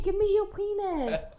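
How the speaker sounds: high, slow mock Asian accent; drawn-out high mock Asian accent. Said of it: "Asian accent".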